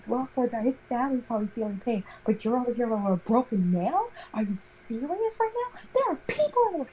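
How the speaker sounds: high-pitched mock rant, climbing way up at the end; hammed-up outraged substitute teacher; ranting Karen. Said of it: "She's going full-fledged Karen".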